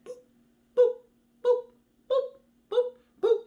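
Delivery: short high-pitched boops; little popping boops for walking steps; footstep boops. Acted. Storyteller sounds out a tortoise walking along, playful boops.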